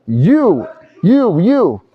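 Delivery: mock accusing shout. Mock egotist blaming others, high accusing shout. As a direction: jab the word you three times.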